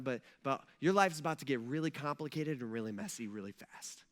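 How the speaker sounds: low, soft, measured voice; acted hushed, matter-of-fact forewarning; gentle warning. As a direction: break life-changing news quietly. Acted God breaking news to Mary.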